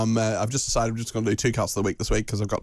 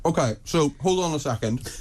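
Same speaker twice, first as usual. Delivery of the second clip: talking through a mouthful of biscuit; mouth full. Real, not acted. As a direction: speak round a bite of food. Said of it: "Don't talk with your mouth full".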